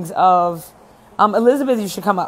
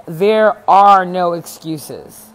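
slow, weighty, each word landed; emphatic declaration; 2 semitones lower, 4 dB louder, slower than usual. Retold or imitated. Coach telling clients she believes in them, emphatic. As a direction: state it as a firm rule, slowly. Coach lays down a firm rule.

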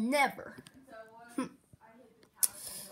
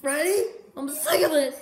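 angry; 4 semitones higher, 6 dB louder than usual. Acted. Angry outburst at Freddy.

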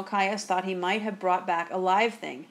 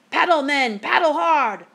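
loud, raised-pitch command to the crew; urgent shout; 7 semitones higher, 8 dB louder than usual. A narrator's reading. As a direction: shout to get the men moving. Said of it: "I shouted to my men".

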